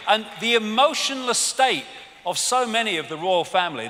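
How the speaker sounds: ordinary talk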